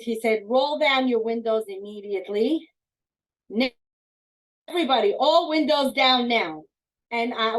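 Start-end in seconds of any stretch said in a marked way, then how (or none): 0.5-6.6 put-on loud, urgent order to the kids; father ordering windows down fast; urgent command. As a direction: bark it out so nobody argues.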